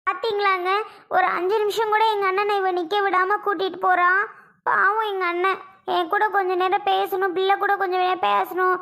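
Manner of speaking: plaintive, insistent lament; aggrieved complaint. Acted. Sister complaining that her brother was hurried away, plaintive and aggrieved. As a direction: pour out the hurt to a husband.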